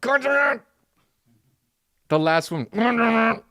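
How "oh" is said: ordinary talk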